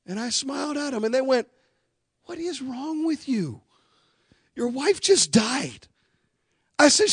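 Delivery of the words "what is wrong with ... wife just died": shocked disbelief. Retold or imitated. Nurses react in disbelief.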